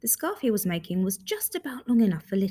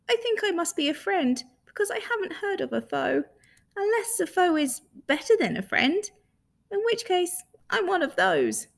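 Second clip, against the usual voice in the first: higher, gentle muddled monster; friendly creature voice; 9 semitones higher than usual. Acted. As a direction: speak as a kind, puzzled creature. The hidden creature speaks.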